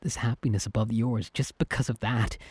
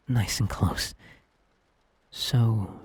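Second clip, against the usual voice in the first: intimate whisper; 3 semitones lower, much slower than usual. Acted. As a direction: breathe it out as you pull them in. Pulling friend close for kiss.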